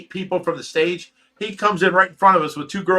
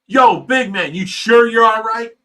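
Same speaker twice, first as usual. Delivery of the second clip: louder, higher call with an edge; calling out again; 6 semitones higher, 6 dB louder than usual. Retold or imitated. Tapping a big stranger's back, a raised higher call. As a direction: yell it over the music, half warning.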